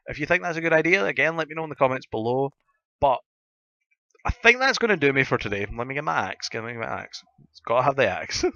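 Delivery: gruff voice from a sore throat; talking through a sore throat. Real, not acted. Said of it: "my gruff, sore throat voice".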